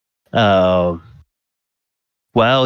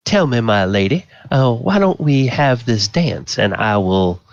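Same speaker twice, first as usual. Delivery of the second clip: Volo; 3 semitones higher than usual. Acted. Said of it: "you realize from the voice".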